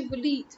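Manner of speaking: "Walid" as wuh-LEED, with a long ee; correct Walid. Shown as a demonstration. Asking why they can't say it, correct Walid. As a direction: say "Walid" with short uh, then leed. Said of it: "You can say W".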